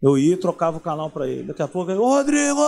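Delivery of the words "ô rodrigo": yelling across the room. Retold or imitated. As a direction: shout a name up the stairs. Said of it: "ele gritava lá de cima".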